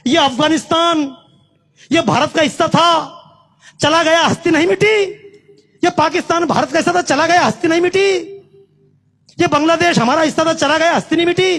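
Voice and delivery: rhythmic, driving list with a repeated refrain; indignant stump speaker building a litany; impassioned rally oratory. Real, not acted. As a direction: hammer each item at the crowd. Rhetorical litany to the crowd.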